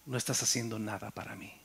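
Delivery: soft inner voice delivering "No estás haciendo nada para mí"; voice of God. Retold or imitated. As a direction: let God's rebuke fall quietly, almost inward. God's voice spoken to his heart.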